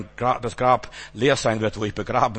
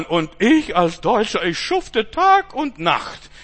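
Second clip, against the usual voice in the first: mock complaining worker; 7 semitones higher, 5 dB louder, slower than usual. Voices envious German complaining.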